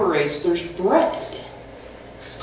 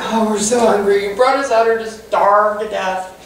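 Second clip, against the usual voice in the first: mock whining. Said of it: "they start complaining".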